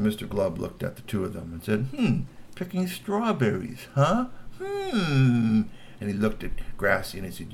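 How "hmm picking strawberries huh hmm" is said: sarcastic. A narrator's reading. Glove sarcastic.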